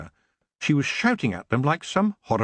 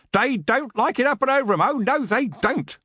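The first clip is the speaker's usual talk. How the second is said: gleeful cheer; 12 semitones higher than usual. Acted. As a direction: crow with delight at the elves' pain. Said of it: "Smack Tremble cheered".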